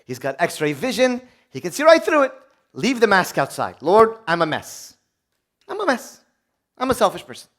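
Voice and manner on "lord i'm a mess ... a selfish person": confessing prayer. Pretend.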